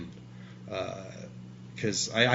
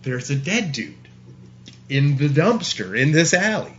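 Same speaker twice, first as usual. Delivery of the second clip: louder, higher, pressing the point; insistent repeat; 4 semitones higher, 7 dB louder than usual. Retold or imitated. Repeating the news to a doubting stranger, louder and insistent. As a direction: say it again louder so they believe you. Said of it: "said it like that".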